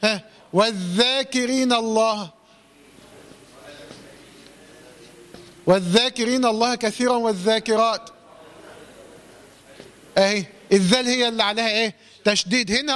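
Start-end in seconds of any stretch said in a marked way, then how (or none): 0.5-8.1 tajweed example with long vowels in "والذاكرين"; doubled dhal. Shown as a demonstration. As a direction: recite measuredly, lean on the shadda of "والذاكرين". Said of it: "مشددة. زي إيه مثلًا؟".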